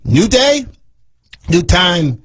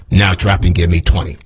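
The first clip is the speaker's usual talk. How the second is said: drill coach command; 10 semitones lower than usual. Acted.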